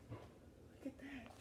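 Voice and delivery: slow hushed whisper of wonder; awed whisper. Real, not acted. Teacher marveling at the picture, hushed. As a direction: breathe it slowly, amazed. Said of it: "teacher hushed wonder".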